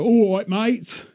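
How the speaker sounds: slow mock American-Cockney "All right, mate"; Guy Ritchie Cockney. Christian Bale as a Guy Ritchie Cockney, lightly mocked. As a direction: drawl it like a Guy Ritchie geezer. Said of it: "sounds like a goddamn Guy Ritchie".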